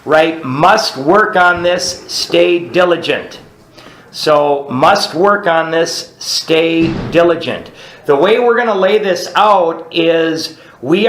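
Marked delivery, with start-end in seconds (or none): 0.4-3.4 each word slow and spaced for writing down; slow dictation. Shown as a demonstration. Sponsor dictating a note to the group, slowly. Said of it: "we're gonna write something at the bottom". 4.7-7.7 words drawn out for note-taking; slow dictation. Shown as a demonstration. Speaker repeating the note for the group, slow dictation. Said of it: "we're gonna write something at the bottom".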